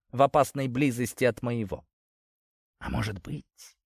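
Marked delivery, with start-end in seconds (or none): 2.8-3.8 soft seductive whisper. Acted. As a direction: breathe it close to his cheek. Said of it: "шепнула она".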